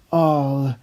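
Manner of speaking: very loud joyful yell; cheering yahoo. Acted. Citizens thanking Spider-Man, loud cheer. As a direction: shout it like a happy crowd.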